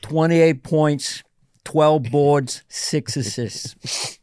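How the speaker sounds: slow, measured stat-line verdict, ending on a rising check; imitated friend. Friend critiquing his SNL show with basketball stats, slow imitation. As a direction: deliver each stat as a separate pronouncement. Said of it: "He goes".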